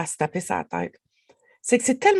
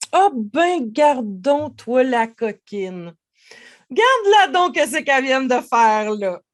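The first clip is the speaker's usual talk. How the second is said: comic fond scolding, pitched up; playful teasing; 2 semitones higher, 5 dB louder than usual. Shown as a demonstration. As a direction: tease yourself like a naughty child. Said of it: "avec le ton, avec l'intonation".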